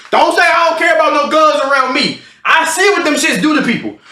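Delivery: high-pitched, mock-alarmed pleading; alarmed protest. Friend begs girl not to invite gunfire, alarmed. Protesting her bravado about guns.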